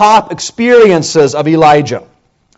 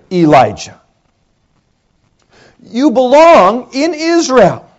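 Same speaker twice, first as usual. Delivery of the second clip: voice of God; 6 semitones higher than usual. Acted. God's question preached slowly.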